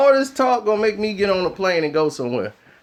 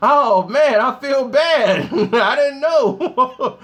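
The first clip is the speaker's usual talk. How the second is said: slow, laughing through the words; real embarrassed chuckle while speaking; laughing sheepishly; 2 semitones higher, much slower than usual. Real, not acted. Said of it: "embarrassed laughing".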